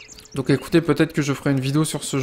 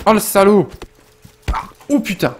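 angry outburst; 6 semitones higher, 4 dB louder than usual. Real, not acted. Attacked by an enemy in game.

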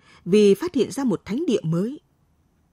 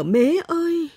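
sobbing cry; 9 semitones higher, slower than usual. A narrator's reading. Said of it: "Cô gào khóc nức nở".

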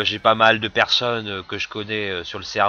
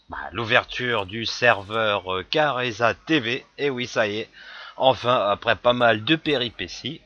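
cracking, unsteady voice. Real, not acted. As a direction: voice breaking a little. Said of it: "j'ai encore la voix qui déraille un peu".

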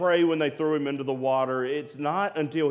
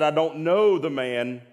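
slower, emphatic mock oath; retold swearing denial; 3 semitones higher, 4 dB louder than usual. Peter swearing at the third asking, slow emphatic denial. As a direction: hit each word in a forceful retold denial. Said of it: "he cursed and he swore".

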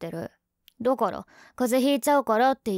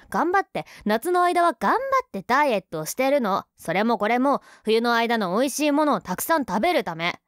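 indignant rant; 2 semitones higher, 4 dB louder than usual. Acted. Indignant defense of her weight.

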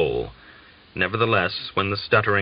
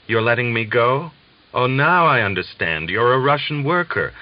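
higher, louder joyful disbelief; dawning joy in a raised voice; a German prisoner thanking his captor, excitedly; joyful realization; 4 semitones higher, 4 dB louder than usual. Acted.

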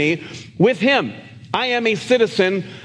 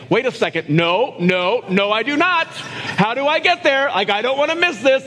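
higher, alarmed protest; a mild mock panic, pitched up; flustered self; 4 semitones higher than usual. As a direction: act out panicking about missing it. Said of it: "I'd be like".

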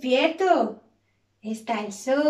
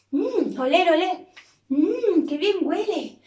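savouring smell; 3 semitones higher, 4 dB louder than usual. Pretend. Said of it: "smelling the bakery bread".

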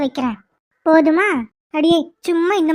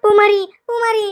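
frantic calling; 4 semitones higher than usual. Acted. Valli runs in to warn Poomari, panicked calling. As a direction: cry out her name in alarm. Running in with urgent news.

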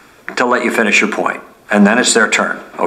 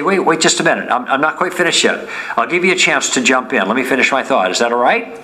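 friendly; faster than usual. Shown as a demonstration. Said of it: "You notice how friendly that was".

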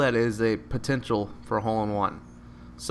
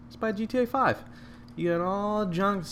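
joking pitch; 10 semitones higher than usual. Pretend.

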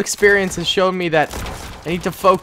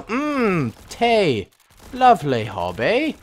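mock British; slower than usual. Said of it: "Sometimes you go".

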